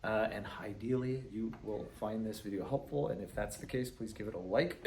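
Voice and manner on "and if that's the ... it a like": talking through hiccups; hiccuping. Real, not acted. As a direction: speak between little hiccups. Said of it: "Excuse me for the hiccup".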